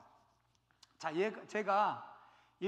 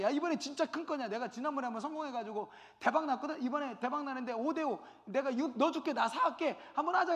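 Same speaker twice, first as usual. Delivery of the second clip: eager tempting pitch; 4 semitones higher than usual. Retold or imitated. Accomplice tempting for heist.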